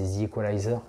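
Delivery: The Equalizer with an English-style long "eye" in Equalizer; English accent. Shown as a demonstration. French vlogger naming a favourite film, English accent. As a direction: say The Equalizer in a slight American accent. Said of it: "mon accent un peu anglais".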